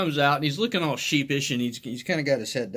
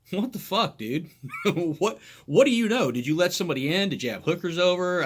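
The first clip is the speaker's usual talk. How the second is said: baffled outburst; 4 semitones higher than usual. Retold or imitated.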